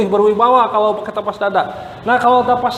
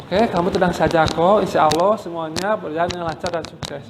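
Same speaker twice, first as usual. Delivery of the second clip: calm inner voice; 3 semitones lower, 4 dB quieter than usual. Shown as a demonstration. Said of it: "bicara dengan diri kita sendiri ketuk-ketuk".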